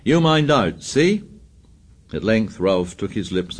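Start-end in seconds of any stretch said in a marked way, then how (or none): 0.0-1.2 high, jeering shouted warning; a boy on the cliff shouting a warning down. A narrator's reading. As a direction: yell it down as a threat. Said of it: "Roger was shouting".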